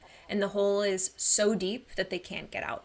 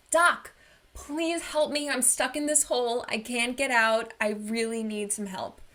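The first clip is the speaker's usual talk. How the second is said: mock shout up from a hole, then fading to pleading; retold shout for help; 3 semitones higher than usual. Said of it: "the person shouts up".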